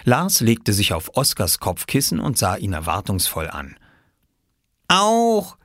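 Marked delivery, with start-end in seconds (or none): 4.9-5.6 put-on high, gleeful toddler word; joyful toddler. A narrator's reading. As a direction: say it like a thrilled little kid. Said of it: "sagte er freudig".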